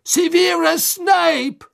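slow, high, loud accusation; shouted accusation. Acted. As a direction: drag out the name in accusation. Karkaroff accuses Snape. (langsamer lauter Vorwurf)

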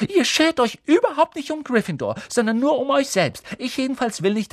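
high, loud indignant tirade; furious hissing scold. A narrator's reading. Hermine follows the boys out and berates them, furious. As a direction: scold them like an angry goose. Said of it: "fauchte wie eine wütende Gans".

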